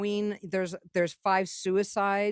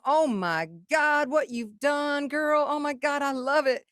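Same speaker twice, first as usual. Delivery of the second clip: imitating a singer; 7 semitones higher, 3 dB louder than usual. The singer praising the finished album, high and thrilled. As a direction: squeal it like a delighted star. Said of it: "But, you know".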